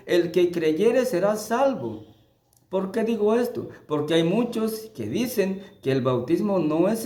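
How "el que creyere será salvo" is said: "creyere" leaned on, slowed down; slow emphatic quote. Shown as a demonstration. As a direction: spell out "El que creyere será salvo" slowly. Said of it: "no dice".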